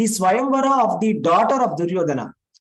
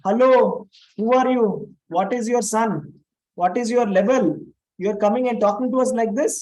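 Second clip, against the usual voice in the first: mock angry challenge; 3 semitones higher than usual. Kauravas taunting Balaram as an upstart, angry challenge. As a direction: throw the challenge back at him, indignant. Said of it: "Then they say".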